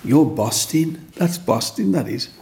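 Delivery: lightly voiced Black Country praise; a hint of Black Country kids; Black Country accent. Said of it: "In the black country".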